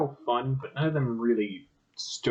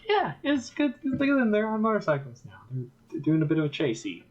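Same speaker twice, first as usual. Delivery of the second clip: mock-bored viewer; 2 semitones higher than usual. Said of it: "It was all just like".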